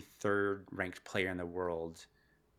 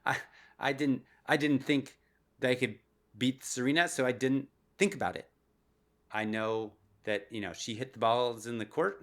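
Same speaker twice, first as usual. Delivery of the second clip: put-on Italian accent; 2 semitones higher, 4 dB louder than usual. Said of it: "She had this great Italian accent".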